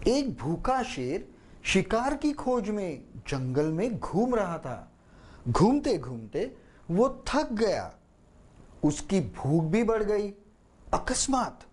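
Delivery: put-on expressive children's story narration, slowing at अकस्मात; animated read-aloud of the lion tale; storytelling voice. Shown as a demonstration. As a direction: tell it like a story for a small child. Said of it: "ये हो गई आपकी story telling".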